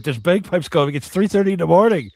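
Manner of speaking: mock outrage, rising in pitch and volume; exasperated complaint. Quoting neighbors' noise complaint.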